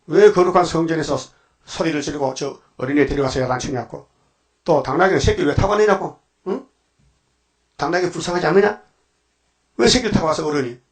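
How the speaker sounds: mildly indignant imitated telling-off; mock scolding. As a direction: act out elders' reproachful questions, only lightly heated. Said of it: "예수를 보고 막 야단치는 거예요". (야단치는 장로들을 가볍게 흉내 낸 꾸짖음)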